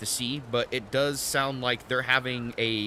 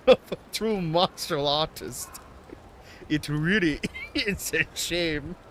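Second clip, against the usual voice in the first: hammed-up Japanese accent cracking into giggles; mock Japanese accent; 5 semitones higher than usual. Old master lamenting a fighter, bad Japanese accent. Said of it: "It's incredibly racist".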